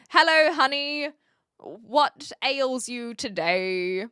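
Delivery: lightly played doting AI girlfriend, slowing down. Streamer playing AI girlfriend to a viewer, mock sweet role. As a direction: put on a mock girlfriend greeting, drawing out the question. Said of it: "be the A I girlfriend".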